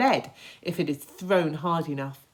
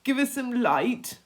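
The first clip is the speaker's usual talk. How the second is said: grasshopper shouting; 9 semitones higher, 4 dB louder than usual. Acted. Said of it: "the old green grasshopper shouted".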